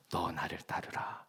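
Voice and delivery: gentle call. Acted. Jesus calling the young man.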